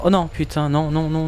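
normal talking voice

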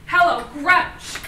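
slow, teasing greeting. Acted. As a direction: drag it out to tease. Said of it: "the look he gave me".

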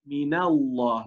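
"من الله" with the noon running straight into the lam; "من الله" with no break between the words; "من الله" تُنطق موصولة; linked Arabic pronunciation. Shown as a demonstration. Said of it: "لاحظوا، من النون مباشرة بننتقل إلى اللام".

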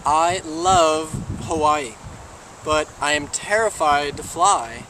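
very slow, deliberate delivery; earnest explanation. Acted. Man explaining his wish to the genie, slow and emphatic. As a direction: spell it out slowly, word by word.

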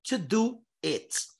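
"I am not going to do it" very slow, every word separate; slow model sentence. Shown as a demonstration. Teacher reading the full-form sentence aloud to students. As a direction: spell it out word by word. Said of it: "Ó".

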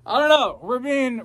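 high, loud, laughing words. Real, not acted. Lost his train of thought, laughing loudly. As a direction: burst out laughing through the words.

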